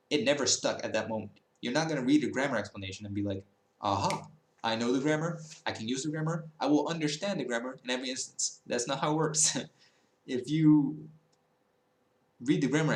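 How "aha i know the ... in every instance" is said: higher-pitched, pretend sudden understanding; lightly mocking know-it-all; mock eureka. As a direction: play an overconfident learner having a eureka. Mimics learner's imagined instant understanding.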